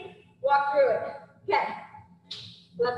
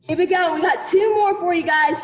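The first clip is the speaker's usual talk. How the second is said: hyped-up coach shout; 4 semitones higher, 9 dB louder than usual. Acted. Pumping up the class.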